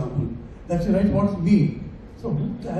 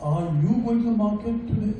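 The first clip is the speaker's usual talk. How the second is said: "you" in "Are you going to the market today?" said higher and harder than the rest; stress on YOU; 3 semitones higher than usual. Shown as a demonstration. Teacher showing students how stress on "you" changes the meaning. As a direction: lean on "you" as if asking this person and not someone else. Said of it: "depending on which word you emphasize".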